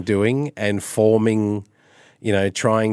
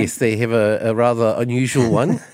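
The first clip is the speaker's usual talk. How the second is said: lightly put-on Kiwi vowels; a touch of teasing Kiwi twang; New Zealand accent. Shown as a demonstration. Slips into mimicking Kiwi accent.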